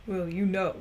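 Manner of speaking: imitating a great-grandfather's soft Southern accent; lightly voiced old Texan; gentle put-on Southern twang. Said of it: "he had a softer accent".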